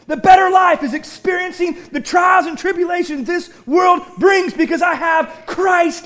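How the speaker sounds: rising, forceful sermon build; preaching. Acted. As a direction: drive the point home to the church.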